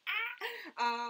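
sudden high yelp of surprise; a quick startled cry that breaks off her sentence. Real, not acted. Caught off guard mid-chat, a high startled yelp.

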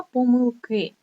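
помилки stressed on the final И; stress on last syllable. Shown as a demonstration. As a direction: lean on КИ in помилки. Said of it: "наголос іде тільки на останню голосну".

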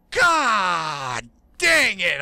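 slow, drawn-out exasperated shout; frustrated outburst. Real, not acted. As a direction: let it out slowly in frustration. Reacting to friend's death.

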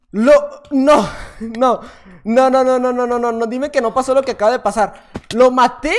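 loud, pleading string of no's; loud despair. Real, not acted. Gamer who just fell to his death, loud disbelieving despair. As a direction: protest in disbelief at the fall. Dies by falling after the kill.

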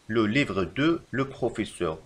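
very slow wrong example; slow dictation. Shown as a demonstration. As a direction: dictate it slowly. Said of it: "فالخطأ في هذه الجملة".

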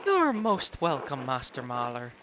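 slow, lilting hostess; lightly voiced Hannah. Voices Hannah, game character.

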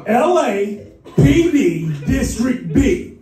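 slow, drawn-out, convincing cop claim; convincing authority. Retold or imitated. Fake cop answering a man in the post office, convincing. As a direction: announce it firmly, stretching each part out. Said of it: "you gotta be convincing".

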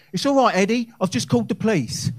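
put-on chirpy old dear calling down, half laughing; old lady neighbour. Comic plays neighbour calling from her window, high, loud old-lady voice. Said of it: "leant out, and she said".

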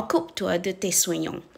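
said fast. Shown as a demonstration. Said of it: "พูดเร็วก็".

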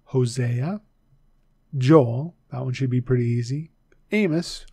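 each prophet's name given on its own, with pauses; slow and clear, one name at a time; said slowly. Shown as a demonstration. Teacher slowly repeating the twelve minor prophets. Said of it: "I'll say it slowly".

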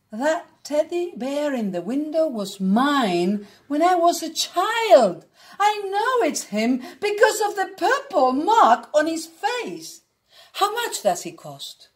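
a hint of German accent, pitch climbing with emotion. Old man asking the shopkeeper about his childhood bear, light German accent. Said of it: "said with a heavy German accent".

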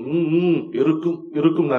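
lightly imitating the actor's way of talking; Sivaji. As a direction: hum and answer in a mild actor impression. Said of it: "Sivaji மாதிரியே". (நடிகரின் பாணியில் லேசான பாவனைப் பேச்சு)

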